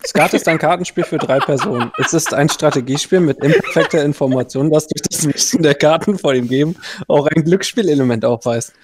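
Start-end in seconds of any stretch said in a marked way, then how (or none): 0.1-6.5 reading aloud like an article. Acted. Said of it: "Liest du ... Wikipedia-Artikel vor?".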